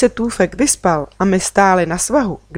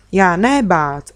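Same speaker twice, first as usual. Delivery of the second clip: hrdě; slower than usual. Acted. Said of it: "řekl hrdě Tůfek".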